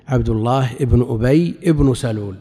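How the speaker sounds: عبد الله ابن أبي ابن سلول with both ابن said "ibnu"; nominative endings. Shown as a demonstration. Teacher gives students a like example, nominative "ibnu" on both ابن. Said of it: "ومثله".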